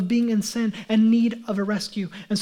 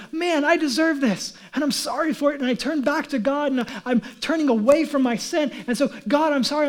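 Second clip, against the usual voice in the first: a touch higher, mock tearful plea to God; pleading repentance; 3 semitones higher than usual. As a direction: voice the sinner saying sorry, lightly. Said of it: "I'm crying out to God".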